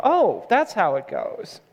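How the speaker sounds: slow, dawning "oh" of acceptance; mock realization, drawn out; convinced listeners. Pastor voicing a congregation won over by confident pronunciation, convinced. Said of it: "they'll go".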